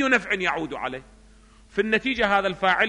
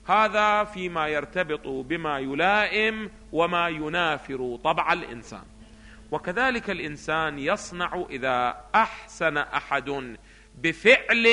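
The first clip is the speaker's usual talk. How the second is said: slow, measured textbook reading; قراءة متن درسي; slower than usual. Acted. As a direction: read the text out slowly, phrase by phrase. Reads the textbook aloud. (قراءة متأنية للمتن)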